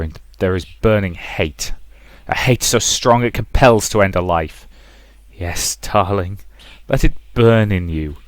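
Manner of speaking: slow, intense, persuasive mother; coaxing mother. Acted. Mother coaxing Rosa to let hate burn, intense coaxing. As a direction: stoke her hatred like a dark temptress.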